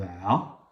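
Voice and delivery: "a" as a drawn-out throat sound; Arabic ayn sound. Shown as a demonstration. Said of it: "c'est le A chapeau". (« a » prononcé de l'intérieur, à l'arabe)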